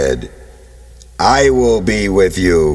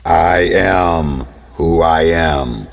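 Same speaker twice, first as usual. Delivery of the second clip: booming shout of God; 8 semitones lower, 6 dB louder, much slower than usual. Acted. God answers Moses.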